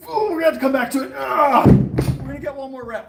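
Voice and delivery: talking while pushing a heavy set; lifting weights. Real, not acted. Mid-set, straining.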